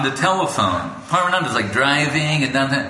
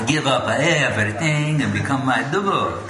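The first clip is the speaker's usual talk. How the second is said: put-on Italian accent. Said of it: "he have a little bit Italian accent".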